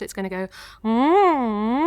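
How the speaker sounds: gentle gliding hum. Shown as a demonstration. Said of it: "so I'll show you first".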